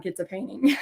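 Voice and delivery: low, soft, blunt order; a hint of a stern husband. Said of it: "I don't think I was that mean".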